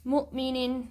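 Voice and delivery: مؤمنین with a sharp glottal catch after مؤ; stopped hamza in مؤمنین; Quranic recitation. Shown as a demonstration. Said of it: "جھٹکا".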